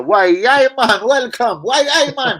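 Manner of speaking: high, rising Geordie catchphrase holler; mock Geordie accent. Host welcomes a Geordie guest, mock Geordie accent. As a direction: whoop it in a put-on Geordie accent. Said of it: "welcome, Geordie, bro".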